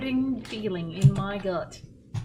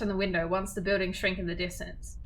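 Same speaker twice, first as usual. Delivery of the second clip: steady narration of a visual novel; story narration. A narrator's reading. Narrator reading the game text aloud. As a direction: read the scene to listeners.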